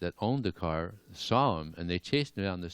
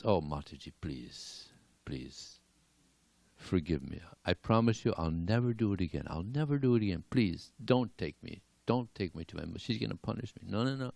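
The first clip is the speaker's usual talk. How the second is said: put-on pleading child; 5 dB quieter than usual. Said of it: "So he's pleading with her".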